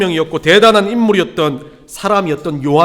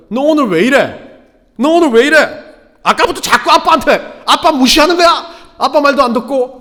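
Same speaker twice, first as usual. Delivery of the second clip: put-on raised, higher-pitched scolding of a child; scolding dad; 5 semitones higher, 5 dB louder than usual. Dad spanking his toddler for ignoring him, angry scolding. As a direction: re-enact an exasperated father telling off his kid. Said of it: "엉덩이를 때리고 하는 말이 그거예요".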